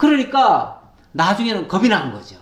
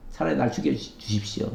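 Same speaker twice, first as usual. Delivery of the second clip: much lower and softer, the plea sinking away; defeated murmur; 10 semitones lower, 9 dB quieter than usual. Acted. Elijah in the cave asking God to end it, hushed. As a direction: let the repeat fall to a hopeless hush.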